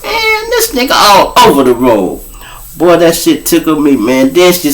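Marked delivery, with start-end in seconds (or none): 0.0-2.2 woman's voice. Retold or imitated.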